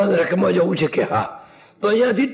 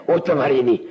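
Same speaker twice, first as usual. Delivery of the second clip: lowered exclamation; 7 semitones lower than usual. Acted. Exclamation of disbelief.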